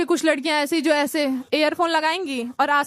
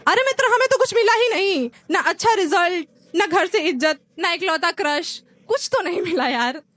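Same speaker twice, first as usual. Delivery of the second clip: exasperated outburst; 2 semitones higher than usual. Acted. Exasperated reply to friends.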